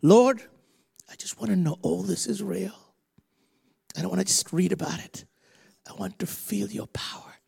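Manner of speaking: quick, pleading voiced prayer; her prayer. Preacher voicing the woman's own prayer, fast and pleading. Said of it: "you've prayed this prayer".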